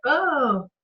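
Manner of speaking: slow, mock-whimpering overwhelmed sigh. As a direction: let it out with a near-cry. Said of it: "and inside I'm like".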